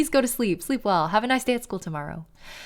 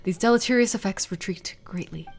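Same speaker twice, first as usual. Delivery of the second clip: whispered reading. Acted. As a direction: whisper the diary line. Reading diary in hushed voice.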